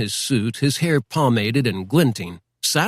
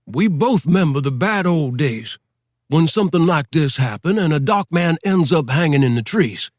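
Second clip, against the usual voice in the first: higher, folksy lawman voice, patronizing; a small-town sheriff talking down, a touch higher; white sheriff; 4 semitones higher than usual. Acted. Sheriff recalling old days.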